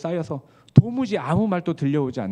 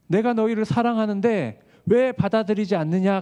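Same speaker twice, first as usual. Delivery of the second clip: pleading cry; 6 semitones higher, 4 dB louder than usual. Acted. Jesus' lament quoted again, louder.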